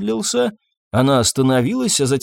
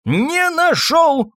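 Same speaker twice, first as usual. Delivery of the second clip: the doctor wailing that he found nothing, shouting; much slower than usual. A narrator's reading. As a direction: stretch it out in a high yell. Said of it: "кричал доктор".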